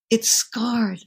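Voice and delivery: choked-up whisper; tearful whisper. Real, not acted. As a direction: voice breaking into a whisper. Emotional memory of injured finger.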